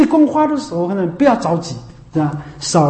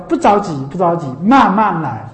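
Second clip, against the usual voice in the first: amused quote; 4 semitones lower than usual. Retold or imitated. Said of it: "他讲的一句话叫".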